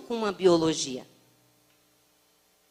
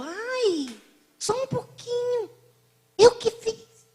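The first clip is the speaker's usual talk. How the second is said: put-on high, coaxing little old lady voice; the old woman urging the speaker to take another cake, high and coaxing; insistent old lady; 11 semitones higher, slower than usual. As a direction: press her sweetly to eat more.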